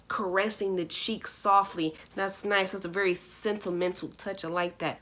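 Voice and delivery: hushed, tender murmur; soft and quiet. Real, not acted. Soft reading, tender remarks.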